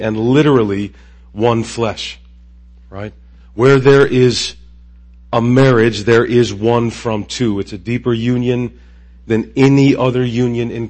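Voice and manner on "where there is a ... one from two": emphatic preaching. Acted. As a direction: lean in and press each word.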